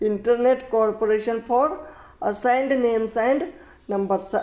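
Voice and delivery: very slow, each word separated; slow teacher dictation; slow full form. Shown as a demonstration.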